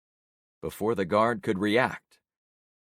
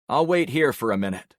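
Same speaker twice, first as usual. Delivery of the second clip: nervous aside; 5 semitones higher, 6 dB louder than usual. Acted. Narrator ducking under gunfire.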